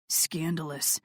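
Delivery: low breathy whisper; a lover's hushed whisper; teasing whisper. A narrator's reading. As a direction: whisper it like a tease.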